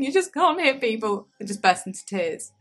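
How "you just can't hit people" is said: raised scolding voice, higher. Retold or imitated. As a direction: scold a toddler, pitched up.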